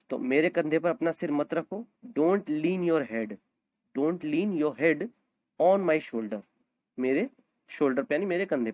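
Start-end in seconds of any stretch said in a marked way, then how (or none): 2.1-6.4 slow model sentence. Shown as a demonstration. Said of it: "slow repeated model phrase".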